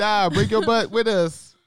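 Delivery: high, loud, slow Hispanic mom voice; Hispanic mom accent. Retold or imitated. Mom telling the kids to come along, in a Hispanic accent. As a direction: drag it out in her Hispanic accent. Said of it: "I got her accent down".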